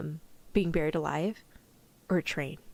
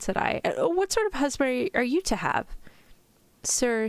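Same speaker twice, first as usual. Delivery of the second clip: story narration; 6 semitones higher than usual. A narrator's reading. Reads a novel aloud.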